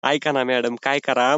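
slow, low, pleading whine; tearful pleading. Real, not acted. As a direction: beg her to stay on, slowly and pitifully. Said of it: "तुम्ही रडताय".

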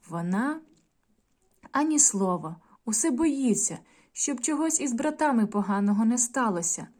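put-on storytelling voice for young pupils; story narration. A narrator's reading. Teacher reading a folk tale to the class, gently. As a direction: read the tale aloud to children.

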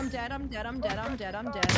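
frantic repeated I'm dead; rising panic as he goes down; panicking gamer. Real, not acted. Teammate going down in firefight.

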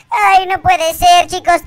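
whiny fake sobbing with stretched words; mock crying. Player tells viewers his friend was mean, mock crying. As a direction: whine to the viewers like a hurt child. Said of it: "Voy a seguir llorando".

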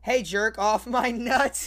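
slow, drawn-out silly request; a lightly voiced cartoon squirrel; mock squirrel voice. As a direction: ham up the squirrel's plea. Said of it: "he said".

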